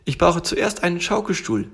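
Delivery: high little tiger voice; demanding little tiger. Acted. Tiger wants a rocking chair first, insistent.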